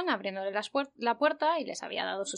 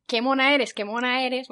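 mock fan squeal; 2 semitones higher, 5 dB louder than usual. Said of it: "gritándome".

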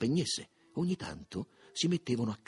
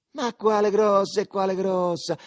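loud, high-pitched defiant retort; sfida; 9 semitones higher, 10 dB louder than usual. A narrator's reading. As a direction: throw it back as a challenge. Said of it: "fece il primo in aria di sfida". (tono di sfida, alto e forte)

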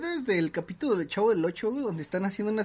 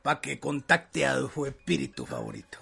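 hyped fairground barker; 4 semitones lower than usual. Retold or imitated. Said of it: "en Pantitlán".

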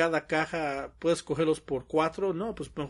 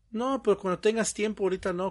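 mock sweet plea; 5 semitones higher, faster than usual. Coworker pleading, retold.

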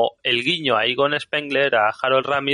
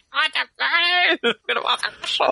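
exasperated plea. Retold or imitated. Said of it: "Y yo".

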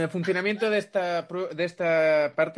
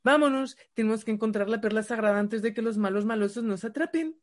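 higher, hammed-up cartoon hero in old dub Spanish; neutral dub Spanish; 4 semitones higher than usual. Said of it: "el español neutro que lo llaman". (héroe de dibujos con español neutro, exagerado y agudo)

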